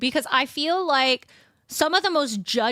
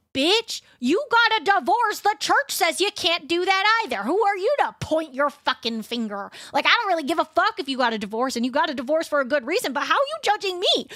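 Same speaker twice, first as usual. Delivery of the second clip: retold angry comeback; 6 semitones higher than usual. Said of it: "And I was like".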